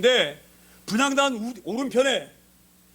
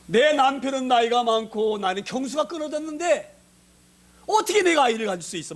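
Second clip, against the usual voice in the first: doubting Sarah; 3 semitones higher than usual. Retold or imitated. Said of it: "이 사라 뭐라 말했나요?".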